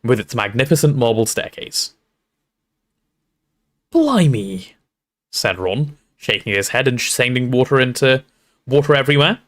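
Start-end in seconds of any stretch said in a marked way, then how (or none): 3.9-4.7 a drawn-out exclamation of dismay. A narrator's reading. Ron drenched by the storm, dismayed. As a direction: Ron taken aback.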